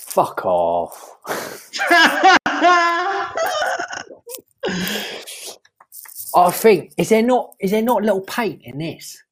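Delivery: a light put-on Cockney accent; lightly voiced Cockney bloke; David Cockney. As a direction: play a cheeky Cockney geezer, lightly. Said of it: "It's David Cockney".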